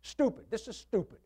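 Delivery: mock-angry outburst at the pain; frustrated snap. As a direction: spit the word out in annoyance. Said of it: "I am very angry about it".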